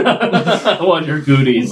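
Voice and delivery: slow, lightly kiddish whine; childish voice. Pretend. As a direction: say it like a little kid. Mocking kid talk.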